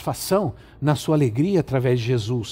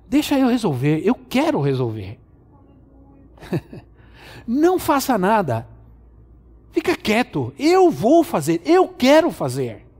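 insistent God; 5 semitones higher than usual. Pretend. Preacher voices God insisting.

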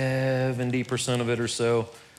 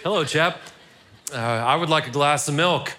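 put-on British accent; 2 semitones higher than usual. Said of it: "That's my best British accent".

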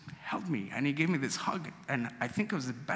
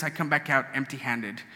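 ordinary delivery

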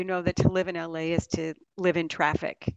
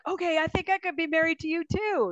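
quoted husband; 10 semitones higher than usual. Retold or imitated. Quoting husband's reply.

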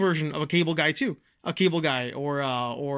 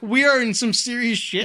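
mild impression of a rattled explainer; Bud Abbott; 5 semitones higher, 4 dB louder than usual. Retelling Martin Short's movie realization, Bud Abbott style. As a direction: lightly act out a dawning realization, pitched up. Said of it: "very, like, Bud Abbott kind of way".

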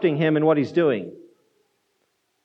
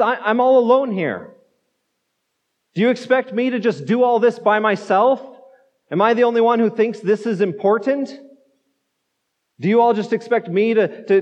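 mildly indignant, pitched-up protest; erupting complaint; 3 semitones higher than usual. Retold or imitated. Martha complaining to Jesus, lightly voiced indignation. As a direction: imitate someone complaining of being left with everything. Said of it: "she erupts in this complaint".

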